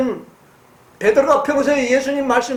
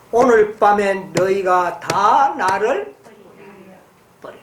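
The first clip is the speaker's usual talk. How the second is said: slow, lower, sorrowful voice of Jesus; deepest sorrow; 6 semitones lower than usual. A narrator's reading. Jesus warning disciples on the way up the mountain, slow and sorrowful. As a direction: let each word sink under grief. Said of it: "가장 깊은 슬픔에 잠기신 목소리로".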